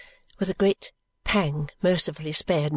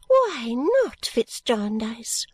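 sharp; 3 semitones higher, much slower than usual. Acted. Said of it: "she asked rather sharply".

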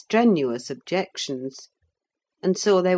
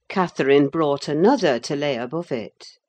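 ordinary delivery, nothing marked

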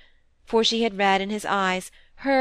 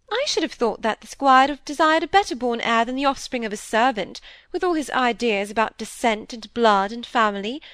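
lightly raised, mildly scornful stepmother; a touch of a disdainful genteel lady; lightly voiced haughty stepmother; Mrs Gibson, lightly voiced; 3 semitones higher, 4 dB louder than usual.

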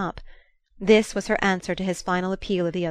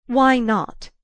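louder probing repeat, less high; searching; 5 semitones higher, 6 dB louder than usual. Acted. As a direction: press him searchingly for an answer. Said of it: "she searchingly repeated".

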